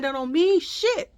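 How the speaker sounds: high, loud dismissal; retold indignation. Mother dismissing a stranger's reasoning, retold angrily.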